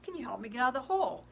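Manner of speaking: high, loud cry up out of the hole; yelling for help. Acted. Girl stuck in a hole yells to her priest, loud and pleading. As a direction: call up to the priest, desperate. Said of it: "And she yells".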